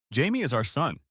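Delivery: father reminds his ex-wife, stressing "our"; emphasis on our. A narrator's reading. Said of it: "special emphasis on the word our".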